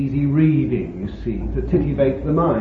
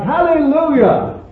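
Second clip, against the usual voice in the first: high, loud jubilant yell; yelling out in adoration; 12 semitones higher, 7 dB louder than usual. Retold or imitated. Preacher acts out Paul's heart brought to adoration, yelling. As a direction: let it burst out in praise. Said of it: "had to yell out something like".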